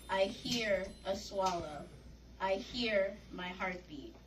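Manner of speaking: measured spoken-word poem, pausing between phrases; poetry reading. Acted. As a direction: read it as a solemn poem, line by line. Reads own poem aloud.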